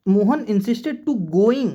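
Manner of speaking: slow read-out of wrong sentence. Shown as a demonstration. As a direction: read the wrong option slowly to show the error. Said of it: "यहाँ पर क्या होना चाहिए था?". (गलत वाक्य धीरे पढ़ना)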